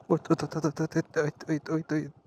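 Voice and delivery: urgent rising wait wait; quick nervous calls to stop; alarmed. Real, not acted. Steep descent, sudden alarm.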